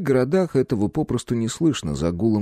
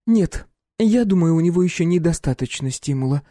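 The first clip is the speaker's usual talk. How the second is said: wry; 8 semitones higher than usual. A narrator's reading. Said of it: "поморщилась девушка".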